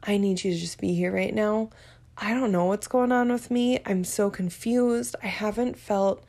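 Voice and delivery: just say what you need, gently; the calm way she should have asked; calm honest request. Shown as a demonstration. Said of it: "should have been able to just sit down and say".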